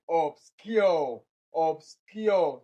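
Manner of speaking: "Obscure" said ob-SCURE with falling end; stress on second syllable. Shown as a demonstration. Teacher shows where obscure is stressed, on second syllable. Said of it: "obscure is the stressed word".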